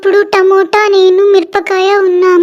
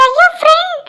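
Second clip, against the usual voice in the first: higher, breathless whisper of alarm; shocked whisper; 8 semitones higher, faster than usual. Acted. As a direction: whisper it as if afraid to look. Friend calls the melting ice cream.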